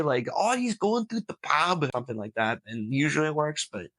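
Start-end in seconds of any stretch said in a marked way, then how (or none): 0.3-1.8 Irish accent. Shown as a demonstration. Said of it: "Usually I can say".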